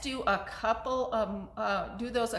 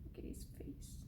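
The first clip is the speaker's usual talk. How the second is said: barely audible whisper; whispered aside; 21 dB quieter, faster than usual. Real, not acted. Storyteller showing children the picture, whispering.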